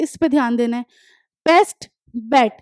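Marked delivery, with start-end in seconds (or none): 1.5-2.5 slow, separate बेस्ट, बेट; demonstrating sounds. Shown as a demonstration. Teacher asks which sounds repeat, slow word demonstration. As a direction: set बेस्ट and बेट apart for listening. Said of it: "किसकी sound आ रही है देखो इसमें".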